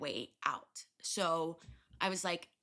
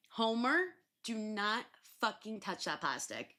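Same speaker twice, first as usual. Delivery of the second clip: scolding the pet; 3 semitones higher than usual. Real, not acted. Scolding her pet mid-story.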